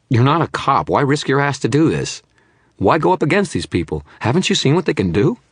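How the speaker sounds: high, loud disbelieving questions; scared witness demanding why he risks it; agitated challenge. Acted.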